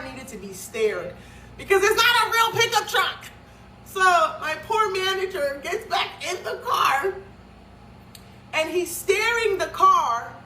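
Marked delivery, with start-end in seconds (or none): 1.6-10.3 high, loud, slowed, voice near tears; distressed retelling. Retold or imitated. To her viewers, about her manager steering the towed car, near tears. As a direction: relive the fear for her manager.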